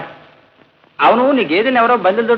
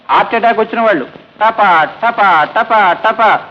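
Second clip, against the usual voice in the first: slow ominous telling; much slower than usual. Acted. Scaring landlord with heart attacks.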